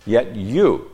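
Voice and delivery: Yet you punched loud and high; emphatic. Shown as a demonstration. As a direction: hit "Yet you" hard.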